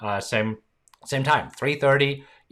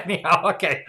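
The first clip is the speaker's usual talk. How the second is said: laughing; 5 semitones higher than usual. Real, not acted. Laughing at the story.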